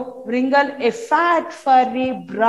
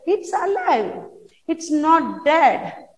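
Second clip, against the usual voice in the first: excited; 5 semitones higher than usual. Acted. Child announces a discovery.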